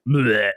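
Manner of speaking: comic blurted retch; imitated dog vomiting. Dog answering his owner, imitated puke noise. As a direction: mimic the dog throwing up. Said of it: "He's like".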